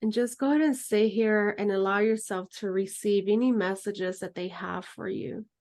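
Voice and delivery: calm, unhurried meditation guide voice; guided meditation. Acted. Guide leading students through closing meditation, calm and unhurried. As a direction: lead the group gently into stillness. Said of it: "end just with the closing meditation".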